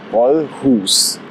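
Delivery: ordinary delivery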